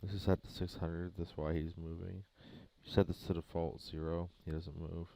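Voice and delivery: heavy breathing into the mic; breath audible between words. Real, not acted. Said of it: "Sorry for the breathing".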